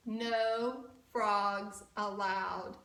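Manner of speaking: slow, deliberate proclamation; stern sign. A narrator's reading. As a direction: spell out the rule slowly. Reading the written sign.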